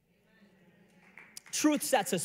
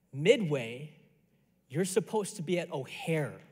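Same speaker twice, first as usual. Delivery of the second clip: low, subdued realization; deadpan dad; 5 semitones lower than usual. Retold or imitated. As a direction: let it sink in, imitating dad on the phone. Dad's realization after a long pause.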